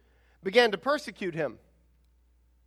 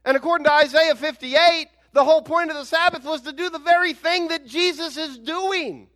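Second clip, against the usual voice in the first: raised, insistent sermon voice; emphatic preaching; 6 semitones higher, 6 dB louder than usual. Real, not acted. Preacher explains the Sabbath's point to the congregation, emphatic preaching. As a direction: drive each point home to the congregation.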